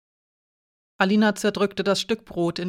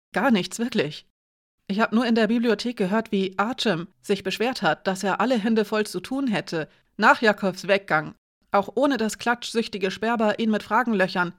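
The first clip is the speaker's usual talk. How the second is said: lightly voiced boy explaining himself; a hint of a chattering lad; Edik, defensive teenager; 3 semitones higher than usual. Edik tells Alina what he overheard, lightly voiced defensive boy.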